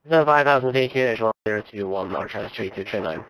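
loud, fast radio-band readback; crackly cockpit radio transmission; air traffic control radio. Real, not acted. Pilot readback over radio.

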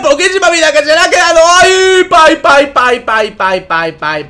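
high, loud shouting that sinks through the pai pai chant; excited play-by-play. Acted. Caster calling a near-kill on Skylar, excited shouting fading. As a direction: yell the near-kill, then let it fade.

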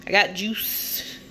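slow, stretched I got juice with a rising end; goofy slow sing-song; odd drawn-out delivery. Real, not acted. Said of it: "I don't know why I said it like that".

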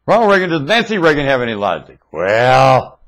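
a hint of Reagan asking the question; Ronald Reagan. Imitating Ronald Reagan being asked about Nancy. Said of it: "my rendition of Ronald Reagan to that question".

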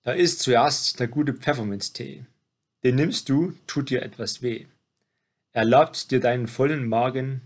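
measured, rhymed poem reading; poem recitation. Acted. Reciting a birthday poem to someone turning seventy, poem recitation. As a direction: recite it verse by verse, pausing between lines.

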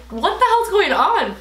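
high, loud and slow; shocked disbelief. Retold or imitated. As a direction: drag out the disbelief. Retold shock at pregnancy news.

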